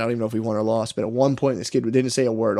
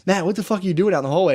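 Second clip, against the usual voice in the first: fast, higher mock telling-off; angry coach; 6 semitones higher, faster than usual. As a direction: bark it like a fed-up coach. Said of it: "my rugby coach came out and was like".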